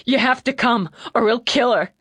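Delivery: put-on panicked young man crying hard; hiccuping tears. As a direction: plead through loud hiccuping sobs. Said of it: "between sobs and shakes".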